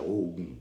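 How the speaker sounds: Ogum said low with a falling end; low tone variant. Shown as a demonstration. Teacher recapping the meanings of Ogum, low falling tone. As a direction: let Ogum sink on its last syllable. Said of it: "são as formas de pronunciar".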